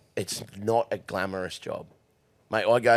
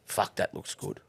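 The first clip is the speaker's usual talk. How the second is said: whispered to self; 7 dB quieter than usual. Retold or imitated. Admiring box to himself.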